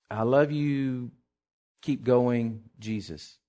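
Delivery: low, slow and softening; tender card reading. Retold or imitated. Preacher reading the card's message to church, quietly tender. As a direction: read it gently, dropping away at the name.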